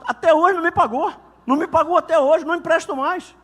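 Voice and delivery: wife telling the pastor her husband never repaid, raising her voice; indignant complaint. Retold or imitated.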